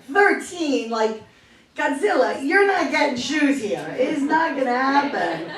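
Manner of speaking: mock disbelief, drawn out; slow, mildly exaggerated incredulity; incredulous refusal. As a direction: refuse him like it's absurd. Shop guys scoff at shoe size.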